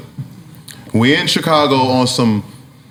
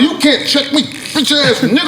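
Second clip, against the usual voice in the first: trash talk; 11 semitones higher than usual. Retold or imitated. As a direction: bark the boast right at him. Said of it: "trying to check me".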